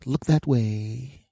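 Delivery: high, lilting put-on doctor voice; imitated female doctor. Doctor tells the staring patient to turn away, imitated high voice. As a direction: give the instruction in a high mock-polite voice. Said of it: "And now she says".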